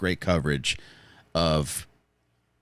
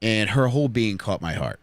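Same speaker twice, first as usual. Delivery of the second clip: slow dramatic; slower than usual. Acted. Romantic build-up to the crush.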